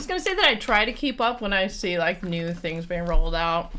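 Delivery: talking through a mouthful of cookie; chewing while talking; mouth full. Real, not acted. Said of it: "talk with my mouth full".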